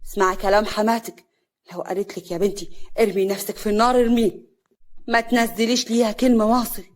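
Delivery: stern, loud fatherly order; scolding shout. Acted. Father ordering obedience to mother-in-law, shouting. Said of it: "صالح بزعيق".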